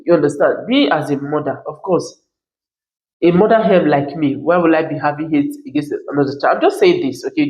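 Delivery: usual speaking voice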